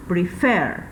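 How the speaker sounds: prefer, weight on FER; stress on second syllable. Shown as a demonstration. Teacher giving students the next verb, final-syllable stress. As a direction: lean on the last syllable of prefer. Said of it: "tiene la mayor fuerza de voz en la última sílaba".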